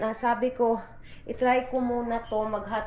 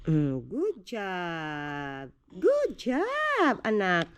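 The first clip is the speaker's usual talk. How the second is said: praising; 3 semitones lower, much slower than usual. Real, not acted. Praising toddler.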